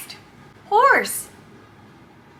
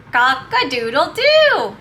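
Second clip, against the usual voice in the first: demo rooster call; 5 semitones lower than usual. Shown as a demonstration.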